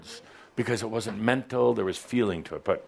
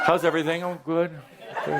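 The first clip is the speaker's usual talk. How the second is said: mock small talk; 6 semitones higher, faster than usual. Mimicking casual exchange.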